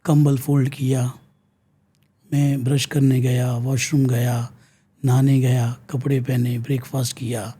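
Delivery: low, even step-by-step listing; recalling the day. Shown as a demonstration. Demonstrates child recalling the day. (धीमे सुर में, रुक-रुक कर दिन याद करते हुए)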